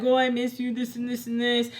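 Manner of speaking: lightly imitated gushing mom; mock affectionate mother. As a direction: mimic mom's sweet talk, then brush it off. Mimicking mother's empty affection.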